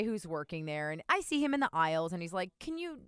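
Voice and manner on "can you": higher, fast, fumbling clerk; lightly voiced store clerk; mock chipper clerk. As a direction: rush the helpful question. Imitating clerk's hurried offer.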